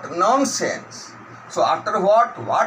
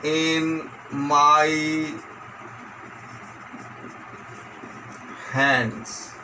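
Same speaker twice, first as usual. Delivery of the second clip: slow word-by-word dictation; measured classroom dictation; 5 dB quieter, much slower than usual. Shown as a demonstration. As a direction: dictate with long gaps, each word drawn out level. Dictates exercise sentence.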